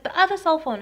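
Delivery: high, loud insistence; retold demand. Intruder to victim, high loud demand.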